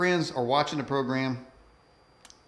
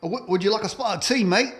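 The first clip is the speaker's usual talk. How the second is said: hammed-up British accent, pitched up; a light put-on British accent; mock British accent; 4 semitones higher than usual. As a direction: play a cheery Brit offering tea. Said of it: "How was that?".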